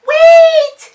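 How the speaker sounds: sudden alarm. A narrator's reading. Narrator realizes duckling missing.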